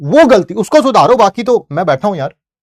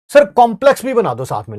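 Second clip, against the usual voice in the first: pitched-up, slightly louder student demand; mock student request; 5 semitones higher, 4 dB louder than usual. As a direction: playfully imitate an eager student asking. Teacher voices students' demands. (छात्र की नकल में ऊँची आवाज़ में फ़रमाइश)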